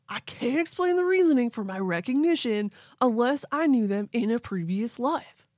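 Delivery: laid-back surfer bro; Keanu surfer voice. Acted. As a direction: chill it out like a beach dude. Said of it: "I'm channeling Keanu".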